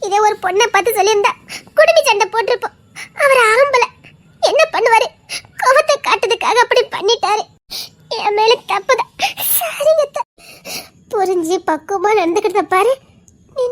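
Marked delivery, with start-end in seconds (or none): 1.8-10.2 crying while half laughing; aunt forgiving the girl, laughing through tears; tearful laugh. Acted. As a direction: let relief break into tears.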